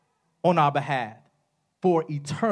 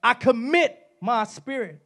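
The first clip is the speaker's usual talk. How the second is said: screaming; 7 semitones higher, slower than usual. Acted. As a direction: stretch the cry out in full force. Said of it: "He screams out".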